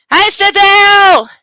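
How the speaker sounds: high, slow, loud sing-song hello; excited greeting. Real, not acted. Calling out happily to pet Cecil, excited.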